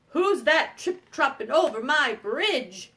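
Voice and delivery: slow, drawn-out troll challenge; lightly voiced troll demanding an answer; evil troll. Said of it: "there was an evil troll".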